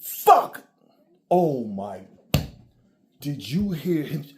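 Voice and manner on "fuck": a single high, loud, drawn-out Fuck; a rapper's swear. Retold or imitated. Imitating how a rapper says Fuck, high and loud. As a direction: spit the word Fuck like a star rapper. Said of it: "Eminem can literally sit there and go".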